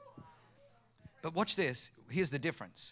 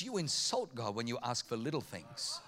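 quiet rebuke; 9 semitones lower, 8 dB quieter than usual. Retold or imitated. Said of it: "He says".

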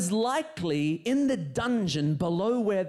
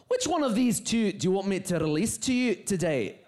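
put-on Scottish accent. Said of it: "who clearly was from Scotland".

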